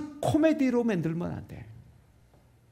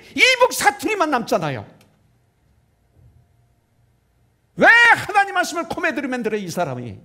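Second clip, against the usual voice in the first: raised, loud, indignant pulpit voice; forceful preaching rebuke; 7 semitones higher, 7 dB louder than usual. Real, not acted. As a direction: hammer out each item, building to an outcry. Preacher rebukes comedy made of scripture.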